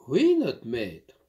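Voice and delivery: slow, obedient answer; meek servant. Acted. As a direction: maid agreeing to her master, meek. Maid submits.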